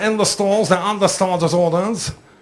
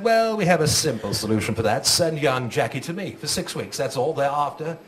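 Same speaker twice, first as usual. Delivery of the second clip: posh headmaster; 4 semitones lower than usual. Retold or imitated. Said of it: "The headmaster said".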